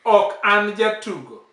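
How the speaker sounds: OK AN held up, JATUGO falling away; sweet intonation. Shown as a demonstration. Teacher showing the learner how hers should sound, sweet intonation. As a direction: model Ok an jatugo in a lifted, falling tune. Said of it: "See the way mine is sweet".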